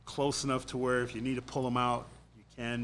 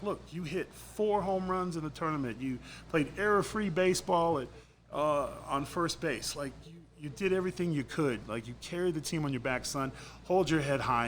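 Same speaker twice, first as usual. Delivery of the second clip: higher-pitched, urging reassurance; retold pep talk; 5 semitones higher than usual. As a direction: act out a dad bucking up his son. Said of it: "try to pick my son up".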